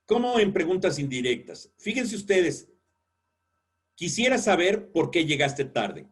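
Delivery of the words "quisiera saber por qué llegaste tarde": Quisiera saber por qué llegaste tarde said level, as a statement; non-question tone. Shown as a demonstration. Teacher showing an indirect question as a statement. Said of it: "Escuchen mi tono, que no fue un tono interrogativo".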